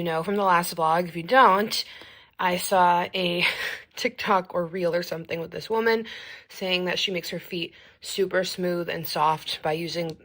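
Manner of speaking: talking with a retainer in; slightly lisped retainer speech; wearing a retainer. Real, not acted. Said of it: "I have my retainer in".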